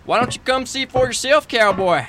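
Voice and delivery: high, teasing come-hither; flirty tease. Acted. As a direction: lure him down playfully.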